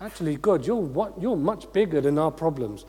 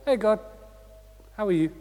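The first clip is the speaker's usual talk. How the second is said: casual check-in. Acted. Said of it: "actually go to God and go".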